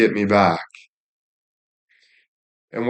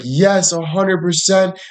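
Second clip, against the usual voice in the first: imitating the agent in a higher voice; mock high phone voice; high-pitched voice; 7 semitones higher than usual. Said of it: "a more high-pitched voice than normally".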